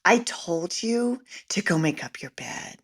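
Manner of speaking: fake-calm flight attendant asking about the bed; too-sweet flight attendant voice to a child. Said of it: "the flight attendant voice".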